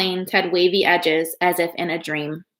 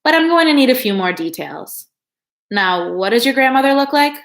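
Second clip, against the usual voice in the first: higher nasal clerk voice; 5 semitones higher, 4 dB louder than usual. A narrator's reading. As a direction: pinch it through the nose, brisk. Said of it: "she told Martine in a nasal voice".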